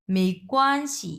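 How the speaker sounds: "মেইকোয়ানশি" slow, শি dropped quickly at the end; slow tone demo. Shown as a demonstration. Teacher shows the neutral শি, clipped, at the end of "মেইকোয়ানশি". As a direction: say "মেইকোয়ানশি", let শি go light and short. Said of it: "শিটা আমি কিন্তু খুবই তাড়াতাড়ি বলতেছি".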